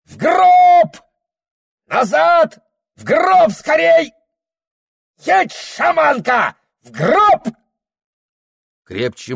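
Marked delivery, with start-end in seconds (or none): 0.0-7.5 very high, loud cry; even louder shout. Acted. Shaman screams a death omen at the shamaness, very high and loud. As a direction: hurl the word at her. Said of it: "И ещё громче крикнул".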